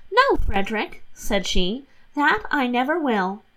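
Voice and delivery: lightly voiced guileless young wife; Catherine's innocent voice. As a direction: rattle off the excuses innocently. Catherine promises.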